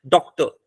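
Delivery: डॉक्टर as two beats, slightly held after डॉक; pause after first syllable. Shown as a demonstration. Teacher demonstrating where one syllable ends, डॉक्टर slightly broken after डॉक. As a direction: let डॉक end before starting टर. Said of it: "डॉक के बाद हम रुके".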